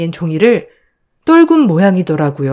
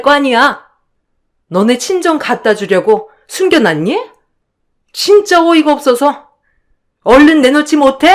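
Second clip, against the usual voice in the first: higher, contemptuous accusing voice; scornful sister-in-law; 7 semitones higher than usual. Acted. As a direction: sneer down at the younger in-law. (높고 비아냥대는 형님 목소리)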